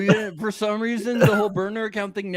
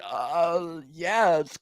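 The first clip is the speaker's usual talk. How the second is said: stunned, processing; much slower than usual. Retold or imitated. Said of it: "still trying to process it all".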